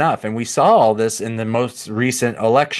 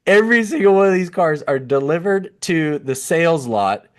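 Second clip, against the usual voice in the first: higher, fighting a laugh on every single; restrained laughter; 5 semitones higher than usual. Real, not acted. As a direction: say it again, barely holding back laughter. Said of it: "can't say this with a straight face".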